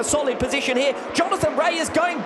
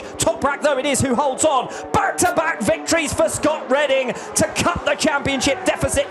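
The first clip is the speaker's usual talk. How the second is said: excited. Real, not acted. Race finish, side by side.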